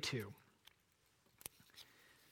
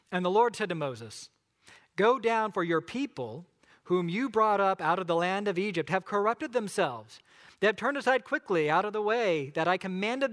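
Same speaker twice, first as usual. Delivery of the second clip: scripture reading. Acted. Pastor reads Exodus aloud.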